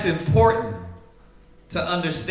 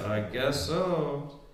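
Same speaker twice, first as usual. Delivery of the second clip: lower, softer, slow eerie murmur; spooky voice; 6 semitones lower, 9 dB quieter, much slower than usual. Retold or imitated. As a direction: drag it out low like a ghost. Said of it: "you getting spooky like".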